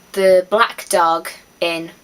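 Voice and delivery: "the Black Dog Inn" drawn out slowly, each word weighted; slow grand announcement. Shown as a demonstration. Vlogger reveals her dream pub's name, slow and deliberate. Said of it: "That's what my pub would be called".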